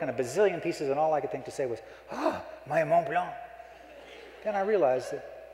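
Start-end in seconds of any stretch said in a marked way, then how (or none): 2.1-3.3 mock lament. Pen breaks, lament.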